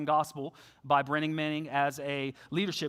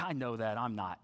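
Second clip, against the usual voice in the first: resigned; 9 semitones lower, 9 dB quieter than usual. Retold or imitated.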